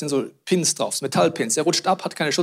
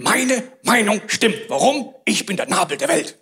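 smug egoist; 2 semitones higher than usual. Pretend. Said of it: "Und wir denken".

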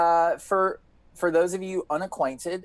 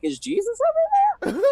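mock-earnest question; 3 dB louder, faster than usual. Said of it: "I'm like".

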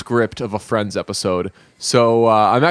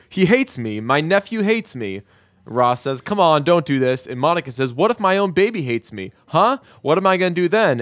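higher, whiny, hammed-up despair; mock panic; 5 semitones higher than usual. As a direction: play up the self-pity in a raised voice. Monica panicking baby hates her.

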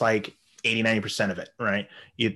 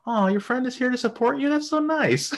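laughing mock sweetness; 14 semitones higher than usual. Girl's cheeky comeback, laughing.

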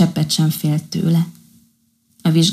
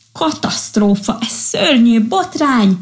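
alarmed outcry; 5 semitones higher than usual. Acted. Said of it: "Harsogták túl egymást az állatkák".

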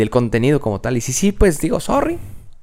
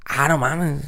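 feigned surprise; 3 semitones higher, slower than usual. Retold or imitated. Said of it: "fingir un poco de demencia".

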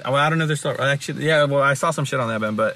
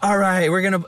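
drawn-out, higher stage announcement; live-show frontman; 6 semitones higher, much slower than usual. Retold or imitated. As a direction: imitate a rock singer hyping the crowd, slowly stretching the name. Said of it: "in their live shows".

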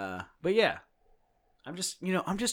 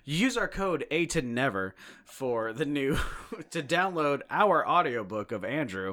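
higher-pitched, slowed sponsor plug; mock ad read; 5 semitones higher, 5 dB louder, slower than usual. Host spoofing a podcast sponsor spot, mock ad read. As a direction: pitch the listeners a fake promo.

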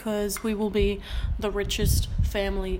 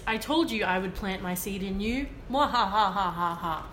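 mad scientist. Acted. Villainous answer read out.

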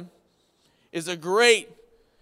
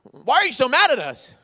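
wife's question; 7 semitones higher, 7 dB louder than usual. Retold or imitated. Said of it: "she'll say".

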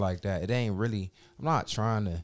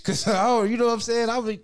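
high, loud laughing aside; real laughter breaking in, high and loud; 14 semitones higher, 8 dB louder than usual. Real, not acted. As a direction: laugh through the words. Laughing while retelling.

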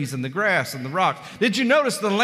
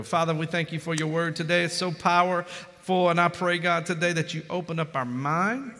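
subdued, level praying voice; closing prayer. Real, not acted. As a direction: address God earnestly.

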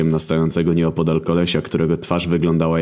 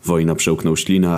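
plain reading voice

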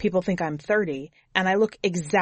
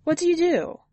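much higher woman's voice, a little louder; chatty driver breaking the ice, pitched up; Susie; 10 semitones higher, 3 dB louder than usual. A narrator's reading. Driver asks hitchhiker his name, much higher voice. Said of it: "Susie questions Jimmy".

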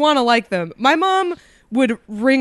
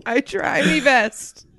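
pirate voice; 4 semitones higher, slower than usual. Retold or imitated. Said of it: "Robot voice pirate?".

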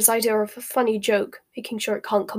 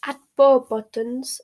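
complacent; 3 semitones higher, 5 dB louder, slower than usual. A narrator's reading. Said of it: "said Fleur complacently".

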